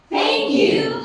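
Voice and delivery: bright high thanks; glad cry. Acted. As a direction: call out thank you, relieved. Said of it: "she cried".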